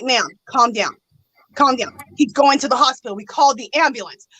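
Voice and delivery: soothing officer. Retold or imitated. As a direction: settle her down gently. Officer soothing the crying caller.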